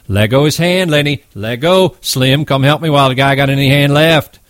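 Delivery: insistent shouting orders; repeated shouts. Acted. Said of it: "George shouted over and over".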